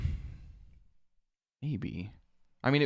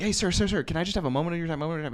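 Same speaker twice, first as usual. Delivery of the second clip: lightly voiced, higher-pitched street canvasser; imitating a pleading clipboard activist; pestering activist; 6 semitones higher, much faster than usual. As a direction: pester a passerby eagerly. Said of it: "like he's an activist waiting outside".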